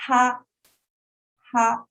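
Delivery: ha held high and level; teacher modelling the flat tone; first tone. Shown as a demonstration. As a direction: sing ha on one high flat pitch. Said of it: "Start high, stays there".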